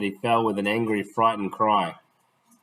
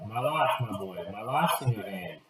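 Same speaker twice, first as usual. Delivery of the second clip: sighing reply; 6 dB quieter than usual. Acted. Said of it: "The blind man sighed".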